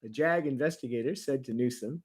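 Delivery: heightened, theatrical news reading; dramatic narration. Acted. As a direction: read it like a dramatic news story. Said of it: "some dramatic narration".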